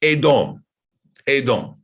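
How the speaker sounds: Edom with a long stressed DOME ending; Hebrew-style Edom, full long o; pronunciation demo. Shown as a demonstration. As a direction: say Edom as "ay-DOME", each one set apart. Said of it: "it's pronounced".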